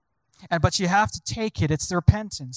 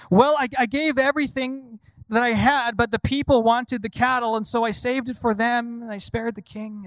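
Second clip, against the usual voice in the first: Saul making excuses; 5 semitones higher than usual. Retold or imitated. Preacher acts Saul excusing himself to Samuel, higher defensive whine. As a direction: justify yourself, whining a little.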